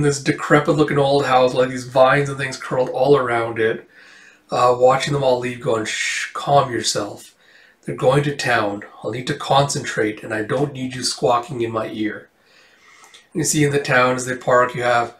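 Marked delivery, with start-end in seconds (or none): 5.8-12.3 hushed villain. Acted. Cloaked stranger hushing a companion.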